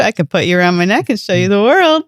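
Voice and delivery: sly, creepy come-on. Pretend. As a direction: coax the snake like a shady salesman. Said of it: "will you say it that creepy".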